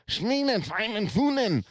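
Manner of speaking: high, harsh mock-German gibberish; a hammed-up imitation of harsh German. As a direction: bark fake German words in a put-on voice. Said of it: "you got the Nazis and the Germans".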